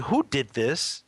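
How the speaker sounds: drawn-out, rising "Who did this?"; slow "Who did this?" ending on a rise; slow puzzled question. Retold or imitated. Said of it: "I said, a little frustrated".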